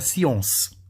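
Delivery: "science" with a nasal "on"-like vowel and final s; nasal, back vowel in "science"; French pronunciation. Shown as a demonstration. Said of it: "só que você vai pronunciar".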